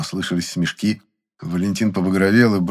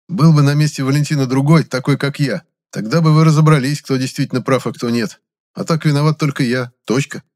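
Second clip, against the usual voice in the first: loud, higher, stubborn protest; defiant retort; 6 semitones higher, 5 dB louder than usual. A narrator's reading. Gennady defends himself to the boss, defiant. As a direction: stand your ground loudly.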